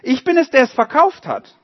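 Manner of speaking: high, loud challenging questions; loud demanding butcher. A narrator's reading. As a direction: confront them loudly. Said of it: "rief er".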